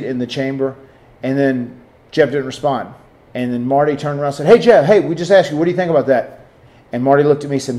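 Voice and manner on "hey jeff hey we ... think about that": raised, higher retold call for attention; insistent call, easing off. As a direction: act out calling someone behind you. Retold calling to Jeff in back.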